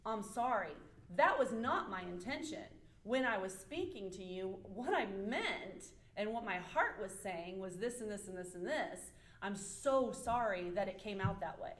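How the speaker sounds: earnest apology, key words leaned on; acknowledging apology. Acted. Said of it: "simple act of acknowledging that".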